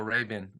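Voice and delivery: Ray-Ban said as "RAY-bun", weak second vowel; Middle Eastern pronunciation. Shown as a demonstration. Telling how Middle Easterners call it, Middle Eastern pronunciation. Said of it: "like the Middle Eastern call".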